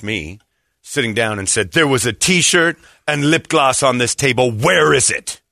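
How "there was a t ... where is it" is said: imitating an angry accuser; confrontational attitude. Angry lady confronts the man at the table, indignant. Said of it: "taken aback by the attitude".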